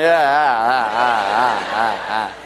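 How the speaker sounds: sarcastic imitated laughter; mock laugh back. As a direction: laugh right back at the friend. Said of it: "I'm going".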